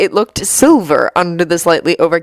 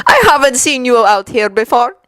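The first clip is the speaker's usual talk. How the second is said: conversational; 5 semitones higher than usual. Acted. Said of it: "said Victor conversationally".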